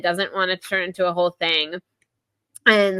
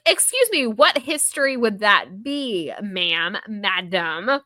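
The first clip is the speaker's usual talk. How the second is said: indignant challenge; 3 semitones higher, slower than usual. Retold or imitated. Sydney challenging Jen about history, indignant.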